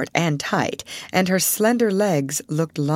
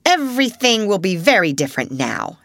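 stern headmistress; 3 semitones higher, 4 dB louder than usual. Acted. Headmistress lays down new rules.

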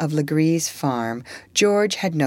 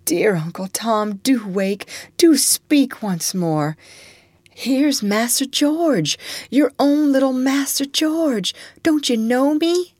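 weak little cry; 9 semitones higher than usual. A narrator's reading. George begs dying Tom.

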